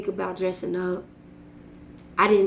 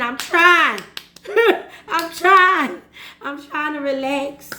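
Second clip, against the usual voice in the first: exasperated inner plea; 5 semitones higher, 5 dB louder than usual. Retold or imitated. Her inner reply to relax.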